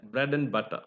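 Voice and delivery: AND shrunk to a bare "n"; weak AND. Shown as a demonstration. Teacher repeating the connected form, weak AND. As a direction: run it together as "bread'n butter". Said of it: "only n is there".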